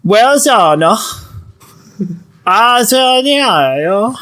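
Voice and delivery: gibberish Italian, Southern American accent. Shown as a demonstration. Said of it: "trying to do a Southern accent".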